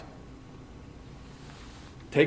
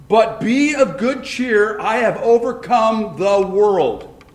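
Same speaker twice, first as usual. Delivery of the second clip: voicing Jesus; 5 semitones higher, 4 dB louder, slower than usual. Preacher voices Jesus' promise.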